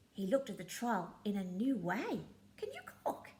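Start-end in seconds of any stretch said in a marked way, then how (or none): 2.6-3.3 curious question. Acted. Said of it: "he asked".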